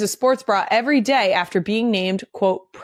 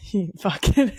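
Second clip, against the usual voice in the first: bursts of high laughter; laughing. Real, not acted. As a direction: crack up at the joke. Laughing at cohost's joke.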